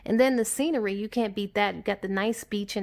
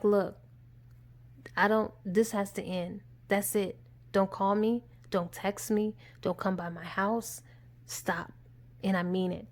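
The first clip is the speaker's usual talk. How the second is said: low, measured retold ultimatum; firm warning; 2 semitones lower, 5 dB quieter than usual. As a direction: lay down the law in short phrases. Retold final warning to the stalker.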